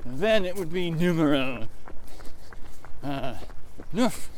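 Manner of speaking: hammed-up French accent; outrageous French accent. Countering the joke about Canada speaking English, French accent. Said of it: "with that outrageous French accent".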